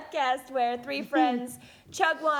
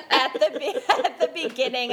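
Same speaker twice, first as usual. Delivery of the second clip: laughing; 2 semitones higher, 3 dB louder, faster than usual. Real, not acted. Confessing while laughing.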